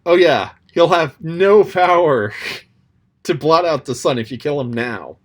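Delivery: high, loud, cheerful assurance; breezy overconfident reassurance; playing the smug advisor; quoting Clarence. Clarence's confident assurance quoted.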